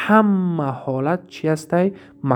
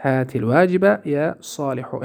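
slow careful recitation. Shown as a demonstration. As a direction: read هات الواجب یا صالحو slowly, each word clear. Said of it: "مثال میاره". (با آرامی و شمرده بخوان)

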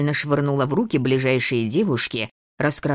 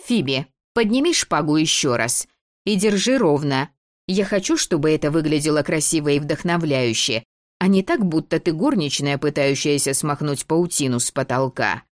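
bossy little princess; 3 semitones higher than usual. Acted. Дебора командует репетицией.

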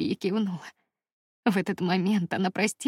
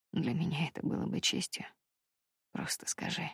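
soft low murmur fading to a whisper; quiet devoted reply; hushed answer; 3 semitones lower, 8 dB quieter than usual. A narrator's reading. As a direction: answer her tenderly, barely aloud.

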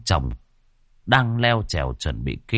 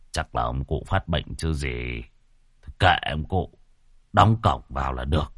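dismissive; 7 semitones lower, 3 dB quieter than usual. A narrator's reading. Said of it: "Ông xua tay nói".

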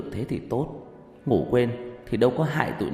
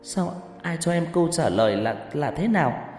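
higher, louder tearful pleading; loud distraught crying demand; 8 semitones higher, 5 dB louder than usual. A narrator's reading. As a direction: beg her sister through tears to speak. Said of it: "Con Mai cũng bật khóc".

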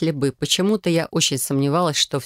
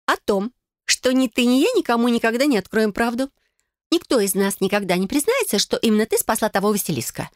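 solemn cousin; 7 semitones higher than usual. Acted. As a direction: pronounce the oath solemnly, higher. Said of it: "торжественно проговорила Фелиция".

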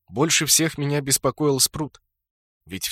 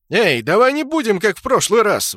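much higher and louder indignant protest; indignant outcry; 11 semitones higher, 9 dB louder than usual. A narrator's reading. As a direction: cry out in outrage at the killing. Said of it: "возмутился Брутто".

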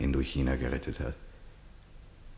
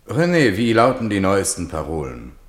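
general calling out; 5 semitones higher, 8 dB louder than usual. Acted. General calls to his chauffeur.

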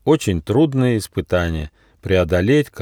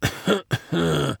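high, put-on dog cough; short hacking character cough; grumbling cough; 7 semitones higher, 5 dB quieter than usual. A narrator's reading. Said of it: "проворчал он".

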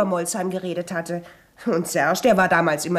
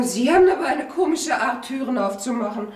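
laughing, a little higher; 4 semitones higher than usual. Acted. Caught maid laughs at the commissioner's trick. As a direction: cover embarrassment with a laugh.

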